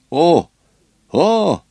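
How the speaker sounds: высокое, громкое «О! О!»; ахни с интересом, выше и громче; восклицание. Acted. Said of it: "воскликнул сэр Джон". (сэр Джон ахает, выше и громче)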